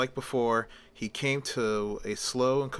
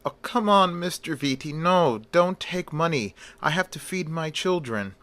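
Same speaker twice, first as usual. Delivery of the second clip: put-on Middle Eastern accent; 6 semitones higher than usual. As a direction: beg the gangster in a thick Middle Eastern accent. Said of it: "in his Middle Eastern accent".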